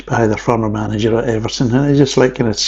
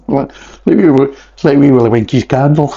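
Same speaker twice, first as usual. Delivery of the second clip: laughing; 2 semitones higher than usual. Real, not acted. Joking about Wee Willie Winkie.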